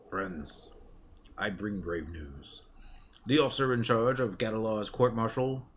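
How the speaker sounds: messenger warning his friends of grave news. Acted.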